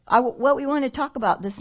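talking with hair in mouth; distracted by hair in mouth. Real, not acted. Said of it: "I've got some hair in my mouth".

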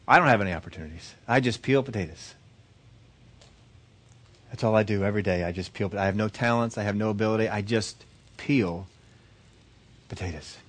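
understated, subdued self-dismissal; self-deprecating. Acted. Potato peeler answering the professor, self-deprecating. Humble woman in told story.

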